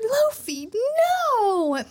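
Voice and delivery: a high, loud cry of his name; mock heartbroken shout for Luffy; hammed-up anguished scream. Vivi cries out in story.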